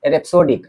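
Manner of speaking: rhapsodic said clearly as "रेप-सो-डिक", stress on the first syllable; careful pronunciation. Shown as a demonstration. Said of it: "इसका pronunciation है". (rhapsodic का साफ़ उच्चारण, "रेप-सो-डिक")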